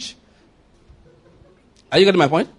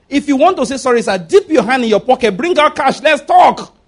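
raised, higher voice building to a shout; emphatic demand; 5 semitones higher, 4 dB louder than usual. Real, not acted. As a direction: drive it up to a loud last word. Preacher scolds empty sorry-sayers.

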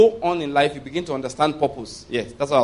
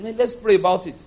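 mock eager prayer; 4 semitones higher than usual. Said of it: "and you get excited".

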